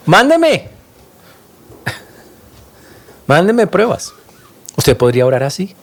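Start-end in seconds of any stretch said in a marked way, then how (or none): 0.1-4.1 petición enfática. Retold or imitated. David pide pruebas, con énfasis.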